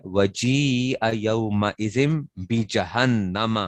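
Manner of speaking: slow, measured recitation of the verse; Quran recitation. Acted. Teacher reciting the verse to his students, slow chant. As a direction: chant it slowly like tilawat.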